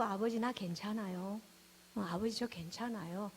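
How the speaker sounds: soft, understated pretence of being okay; feigned being fine. Retold or imitated. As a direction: play down the hurt in a small voice. Acts out hiding feelings from God.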